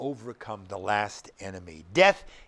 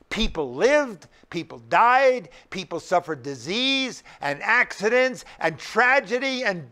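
loud, raised preacher's voice with punched key words; forceful sermon delivery, pitched up; emphatic preaching; 5 semitones higher, 6 dB louder than usual. Real, not acted. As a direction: preach it hard, leaning on each key word.

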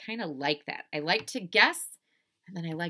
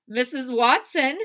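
loud, raised urgent call; Mister Watson; 8 semitones higher, 11 dB louder than usual. Acted. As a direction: summon a wife in alarm. Husband calling wife urgently.

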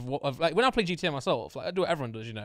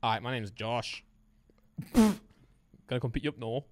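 Tommy T impression; slower than usual. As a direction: drag the words out like Tommy T. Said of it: "Now do Tommy T".

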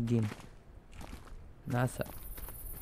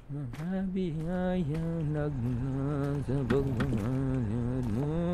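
very slow, softer mock sincerity; mock tender; 3 dB quieter, much slower than usual. Player thanking mother sappily, slow mock tenderness. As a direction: savor each word like a sappy tribute.

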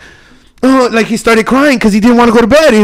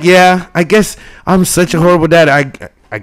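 nonchalant dad; 4 semitones lower than usual. Retold or imitated. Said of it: "But very nonchalant".

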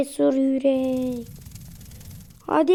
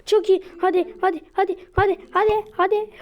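much higher, urgent cheering; excited cheering; 7 semitones higher than usual. Real, not acted. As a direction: egg the car on, voice climbing. Cheering on good run.

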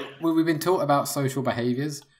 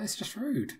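retold indignation; 9 semitones higher, 8 dB quieter, slower than usual. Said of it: "And I was like".

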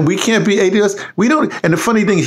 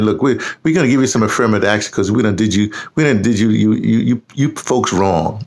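Lyndon Johnson impression; 7 semitones lower than usual. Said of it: "Lyndon Johnson made that speech".

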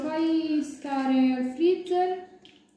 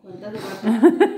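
town crier; 4 semitones lower, 5 dB louder, slower than usual. Pretend. Echoes crier call laughing.

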